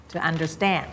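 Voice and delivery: "to understand" slowly, weight on "stand"; stress on STAND. Shown as a demonstration. Teacher repeating the correct stress, "understand" stressed on "stand". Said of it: "stress ที่ stand นะคะ".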